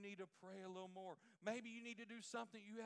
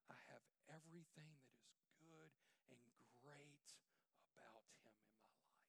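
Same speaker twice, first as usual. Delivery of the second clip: hushed, intimate sermon voice; soft preaching; 5 semitones lower, 9 dB quieter than usual. Acted. Pastor softening to comfort the congregation, hushed. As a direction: draw them close, softly.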